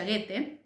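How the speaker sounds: Goethe said as "GUE-te", two syllables; German name pronunciation. Shown as a demonstration. Teacher showing students how the author's name sounds, Goethe as "guete". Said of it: "el nombre se pronuncia".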